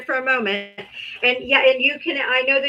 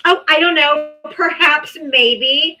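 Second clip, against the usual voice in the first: mocking imitation; 4 semitones higher, 6 dB louder, slower than usual. Mocking the guest's indifference.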